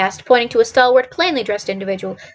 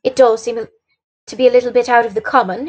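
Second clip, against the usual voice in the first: composed, understated reply; calm; 2 semitones higher than usual. Acted. Holmes answers Watson's alarm, calm and composed. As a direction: remark on it evenly. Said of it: "he remarked calmly".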